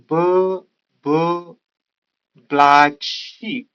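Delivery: separate, lengthened "buh, buh" ahead of black sheep; isolated b sounds. Shown as a demonstration. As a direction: draw out each b before "black sheep". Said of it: "The sound ब is".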